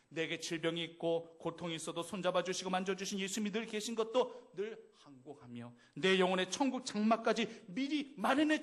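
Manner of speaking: 간절한 감사 고백; fervent confession. Acted. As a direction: build the thanksgiving with growing fervor.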